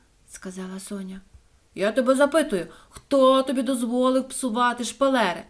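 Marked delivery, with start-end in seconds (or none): 1.7-5.4 higher, louder scolding demand; angry owner. A narrator's reading. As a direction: tell her off for the wallpaper. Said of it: "сердито запитав Іван Іванич".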